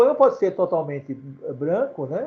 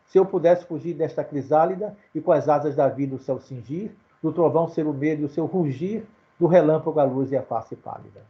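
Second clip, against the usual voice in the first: measured reading of his own verse; poem recital. Acted. Teacher reading his own poem aloud to students, recited verse. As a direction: let each rhyme land at the line end.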